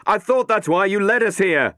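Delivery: Matt yells, high and loud; yelling back. Acted. Matt blaming Catherine over the storm, loud yell. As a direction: fire the accusation back over the wind. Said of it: "Matt yelled back".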